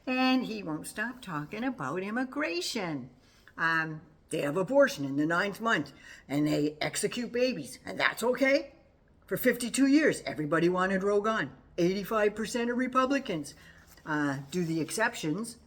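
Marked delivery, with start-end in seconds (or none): 3.6-15.6 retelling the debate, a hammed-up louder Trump rant; imitating raised voice. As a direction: ham up the rising rant. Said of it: "Trump is starting to raise his voice".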